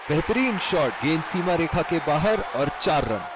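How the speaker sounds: excited shout. Acted. Four runs, commentator calls it.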